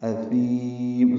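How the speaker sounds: اثیم with the final vowel held long; اثیم said very slowly; drawn out. Shown as a demonstration. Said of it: "لمبا کریں گے".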